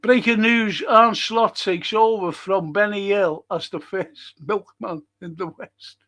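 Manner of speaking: mock news read.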